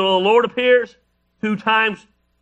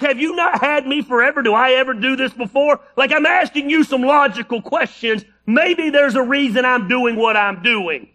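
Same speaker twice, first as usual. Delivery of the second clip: donkey voice; 4 semitones higher than usual. Acted. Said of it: "He's like".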